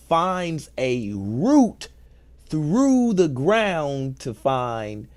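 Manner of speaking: slow and weighted, stressing route; slow, weighted retelling; slow emphatic repeat. Shown as a demonstration. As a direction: say route slowly, drawn out. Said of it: "let me say that, all of that again".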